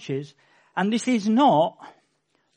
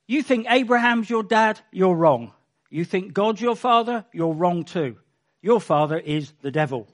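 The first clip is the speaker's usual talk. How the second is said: louder, firm and cutting, each line ending down; stern accusation; 3 dB louder than usual. Acted. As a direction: tell them flatly they are wrong. Jesus confronting the priests.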